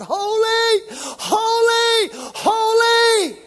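angels shouting holy. Retold or imitated. Angels around the throne crying out, loud ecstatic shout. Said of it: "all they can do ... is shout".

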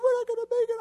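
high, worried wife voice; a high panicky wife saying they won't make it; wife's voice. Retold or imitated. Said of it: "She said".

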